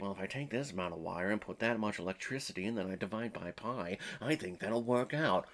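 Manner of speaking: mumbling to himself over blueprints; mock mumbled babble. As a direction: rattle off fake science under the breath. Mocking Jeffrey's science babble again.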